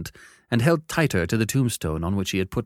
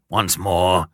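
gruff convict; 2 semitones lower, 5 dB louder than usual. Acted. Convict demands.

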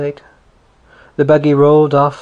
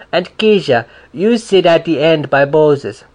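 higher, louder soothing voice; comforting big neighbour; 3 semitones higher, 6 dB louder than usual. A narrator's reading. Neighbour comforts the crying little girl, loud and soothing. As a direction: coax the weeping child along.

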